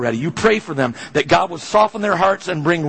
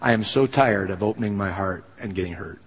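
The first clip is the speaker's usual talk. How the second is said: softer, worn-out plea to God; weary prayer; 5 semitones lower, 5 dB quieter than usual. Retold or imitated. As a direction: pray it tired and hurt. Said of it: "knowing what I'm praying".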